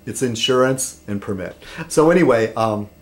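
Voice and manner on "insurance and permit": "insurance" and "permit" said as IN-surance and PER-mit; redneck pronunciation. Shown as a demonstration. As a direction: stress "insurance" and "permit" on the first syllable, redneck style. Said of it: "sometimes I slip into that by accident".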